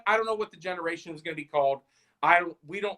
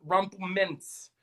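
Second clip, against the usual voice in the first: slow pronunciation; 4 dB quieter, slower than usual. Shown as a demonstration. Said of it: "is it Rumplemints?".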